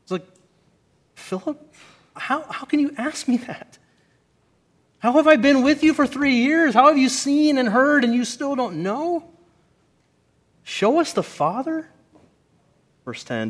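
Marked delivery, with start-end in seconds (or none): 1.2-9.2 much higher, pleading with hurt disbelief; an exasperated teacher let down by his friend; holy frustration, voice lifted in dismay; disappointed frustration. Retold or imitated. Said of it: "dripping with some severe disappointment, possible holy frustration". 10.6-11.9 much higher, echoing the request in dismay; disappointed mock-echo of the question; frustrated disbelief. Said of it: "dripping with some severe disappointment, possible holy frustration".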